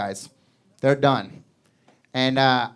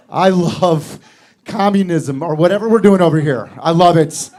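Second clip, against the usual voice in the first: gleeful gloating; 6 dB louder than usual. Retold or imitated. Man gloats, louder.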